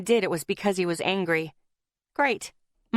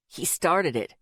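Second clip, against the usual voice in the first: bitten out; 3 semitones lower than usual. A narrator's reading. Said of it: "Isaac bit out".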